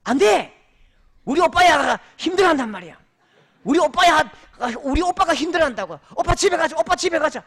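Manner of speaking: imitating a whiny bride, high and loud; bratty daughter. Daughter refusing her father, mock whiny shout. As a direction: whine it like a spoiled girl clinging to her husband. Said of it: "그 딸이 이렇게 말해대요".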